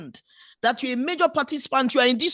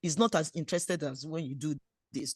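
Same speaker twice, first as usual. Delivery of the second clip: lovingly guiding; 7 semitones lower, 6 dB quieter than usual. Shown as a demonstration. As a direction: coax him tenderly, showing what works. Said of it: "lovingly, guidingly say".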